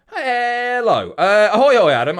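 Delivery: silly greeting voice. Pretend. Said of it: "I don't know what that was".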